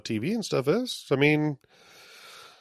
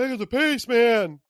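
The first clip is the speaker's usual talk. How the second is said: high, loud mock exasperation; impatient; 10 semitones higher, 4 dB louder than usual. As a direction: call out to hurry them up. Acted impatience at slow scene.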